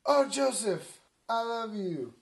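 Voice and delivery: high, loud mock swoon; hammed-up adoration; gushing love. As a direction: gush it out to a husband. Mary's acted reconciliation.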